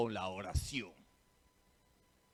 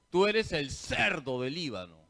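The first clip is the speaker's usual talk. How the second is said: cerdo read with the slip, louder; mock blooper reading; 4 dB louder than usual. Priest repeating the lector's nervous slip. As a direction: imitate the nervous reader saying cerdo. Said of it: "esa persona X se puso nerviosa".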